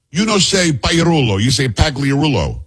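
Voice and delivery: slow mock Italian scolding; thick Italian accent. Woman correcting a news anchor's surname, Italian accent. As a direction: imitate an Italian woman correcting his name, slowly. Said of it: "Italian accent and says".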